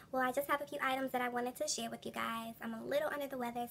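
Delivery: blocked nose, stuffy voice. Real, not acted. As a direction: talk through a stuffy nose. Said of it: "my stuffy and stuffy voice".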